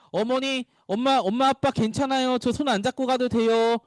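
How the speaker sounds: lightly acted independent child; child to parents. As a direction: play a kid insisting to mom and dad. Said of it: "라고 얘기해도요".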